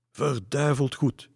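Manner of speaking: loud, high, drawn-out exclamation; slow, emphatic cheer; hearty call. A narrator's reading. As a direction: cry it out like a whole crowd. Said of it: "riep iedereen in koor".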